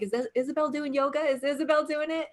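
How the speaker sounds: eager anticipation. Retold or imitated. Retold eager morning question.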